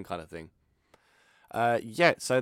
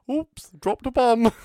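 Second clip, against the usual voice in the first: mock innocent; 13 semitones higher, 9 dB louder, slower than usual. Comic mock aside.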